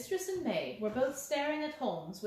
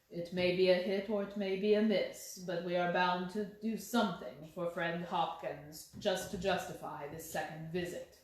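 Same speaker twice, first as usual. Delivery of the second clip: calm insistent Holmes; 4 semitones lower than usual. Acted. Holmes talks to Watson.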